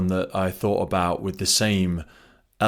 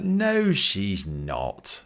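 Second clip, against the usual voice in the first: denial; much slower than usual. Retold or imitated. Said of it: "I'd be like".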